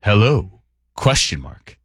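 mock late-night radio read, paused; late-night text reading. Host reading out a cryptic listener text, late-night radio voice. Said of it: "every subsequent text in that late night radio voice".

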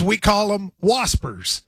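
slow, drawn out waspers; mountain word. Shown as a demonstration. Telling a friend the mountain word, drawn out slowly. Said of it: "In the mountains".

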